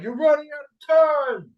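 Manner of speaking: loud, high-pitched mock Irish accent. Retelling a man's warning at the meeting, mock Irish accent. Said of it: "it sounded like Irish accent".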